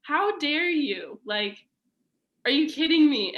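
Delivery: retold outrage, pitch climbing; livid mom. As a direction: throw it back at her like a furious mom. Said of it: "but she was livid".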